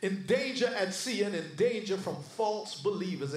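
rhythmic preacher's list of hardships; insistent, measured pulpit recitation; declaimed scripture. Acted. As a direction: hammer out each item in the same cadence. Declaims Paul's list of sufferings.

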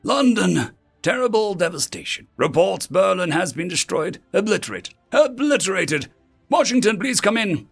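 high, shocked emergency transmission; urgent, distressed radio voice; panicked radio report. Acted. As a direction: report the disaster in alarm. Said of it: "Panicked voices washed over one another".

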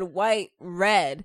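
"white, red" split by a comma pause. Retold or imitated. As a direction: say "white", brief stop, then "red". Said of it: "it's like you commaed".

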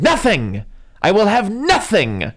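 high, loud, slow outburst; explosive outburst. Retold or imitated. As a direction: explode then drop to tired. Doctor explodes at housekeeper.

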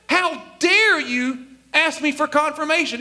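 understated how dare you; half-hearted mock scolding; mild mock indignation. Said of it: "Is that what Jesus said?".

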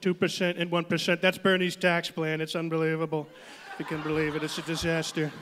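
lightly voiced Trump, dismissive; Trump impression. Trump mocking Bernie's milk tax plan, a hint of Trump. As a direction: scoff at the plan.

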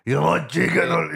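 slow, lightly put-on Eastern European accent; mock Soviet accent. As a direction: echo the kebab guy in a light Soviet accent. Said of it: "he had a Soviet tinge to him".

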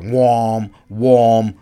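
drawn-out droning wham; long, held sound-effect word; imitated warning sound. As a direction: mimic a slow alarm pulse. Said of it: "gives him that warning".

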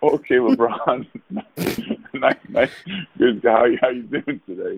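slow, giggly starstruck reply; awkward laughing reply. Retold or imitated. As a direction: stumble through it with a nervous laugh. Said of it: "And I'm like".

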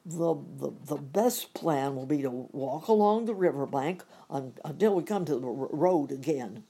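lightly voiced Cowardly Lion, halting; a hint of a hesitant lion voice. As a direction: stammer it out as the Lion. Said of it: "remarked the Lion".

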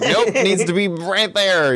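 slow, laughing mock instruction; brisk therapist. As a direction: play a fussy therapist. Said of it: "and be like".

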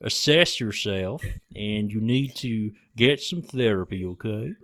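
slow, drawling Texan advice; bad Texan accent. Doctor telling Steven to get therapy, mock Texan. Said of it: "my worst Texan accent".

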